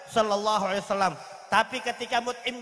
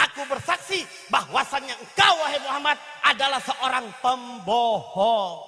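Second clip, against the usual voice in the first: Mut'im bin Adi shouting; 5 dB louder than usual. Acted. Mut'im publicly accuses Muhammad of lying, shouting. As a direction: declare it loudly, stretching the final word. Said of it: "Mut'im bin Adi teriak".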